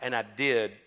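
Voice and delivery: low, soft divine reply; voice of God. Retold or imitated. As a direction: speak as God, quiet and measured. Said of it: "You know what God told me".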